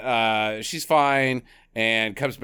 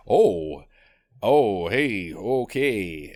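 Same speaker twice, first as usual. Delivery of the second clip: lower, awkward, hesitant impression; Eugene Levy; 4 semitones lower, much slower than usual. Co-host imagining him walking in on them, awkward impression. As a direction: stumble into the room with stilted embarrassment. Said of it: "just awkward Gene Levy".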